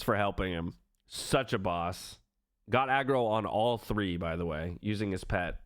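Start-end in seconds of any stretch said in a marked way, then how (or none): 1.1-2.2 "Such a boss" said slowly, each word drawn out; slow it right down and savour "boss"; slow emphatic repeat. Real, not acted.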